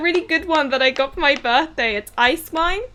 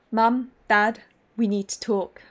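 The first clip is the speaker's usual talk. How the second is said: lightly dramatic, measured delivery; dramatic reading; 3 semitones lower, 3 dB quieter than usual. Acted. Streamer voices Damien addressing the parents, mildly dramatic. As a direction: lower it a touch, with weighty pauses. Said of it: "like, a dramatic voice".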